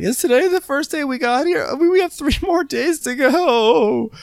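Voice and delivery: high shouting voice. Retold or imitated. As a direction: shout it out in disbelief.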